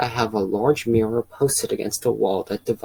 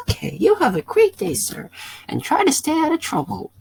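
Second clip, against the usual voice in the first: police officer telling the driver he won't move the car; odd officer voice. Acted. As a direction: play the second officer in a silly high voice. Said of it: "why I used that voice".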